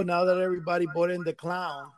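words doubled by line echo; phone line echo. Real, not acted. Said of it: "I'm getting a double".

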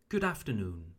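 "Good afternoon" with short vowel in Good. Shown as a demonstration. Teacher models the fix for learners, short oo in "Good". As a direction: say "Good afternoon" with a quick English "Good". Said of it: "So not good afternoon".

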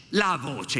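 "La voce" with weight on the singular "La"; stress on LA. Shown as a demonstration. Lecturer correcting the plural to the singular, stress on "La". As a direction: lean on "La" in "La voce". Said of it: "no, lei dice la voce".

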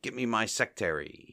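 "sectary" said with the first R dropped; mispronounced secretary. Retold or imitated. Mo calling for his secretary, saying "sectary" without the first R. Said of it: "Mo pronounces sectary".

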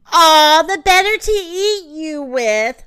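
roaring wolf. A narrator's reading. Wolf pouncing on the girl, roaring. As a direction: roar it out as the big bad wolf. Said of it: "roared the wolf".

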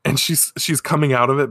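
ordinary talk, nothing marked

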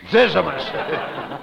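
slow disbelief. Acted. Echoing his partner's odd name Zizimus, slow and stretched out. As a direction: draw the name Zizimus out very slowly, each syllable stretched.

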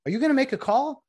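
high mock-bewildered question; puzzled umpire. Umpires asking each other about the call, in a high mock voice. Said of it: "they're like".

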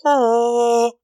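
mock Banshee cry; banshee wail. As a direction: belt out a short wail. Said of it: "should have just been like".

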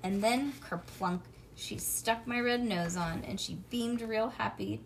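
usual speaking voice

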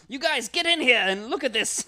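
loud, high, laughing; laughing doctor. Pretend. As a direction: cackle at the gruesome joke.

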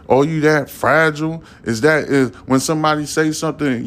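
retold pleading with a hot-headed friend; exasperated scolding. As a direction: scold a friend with incredulous questions. Acted scolding of his homeboy.

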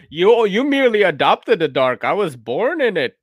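mock-villain line tossed off lightly; Bane impression. Joking about a friend in a Bane mask, lightly voiced Bane. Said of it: "he's like".

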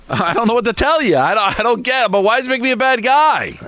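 worked-up, exasperated self-defence. Real, not acted. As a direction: plead your case, fed up. Defending himself in an argument.

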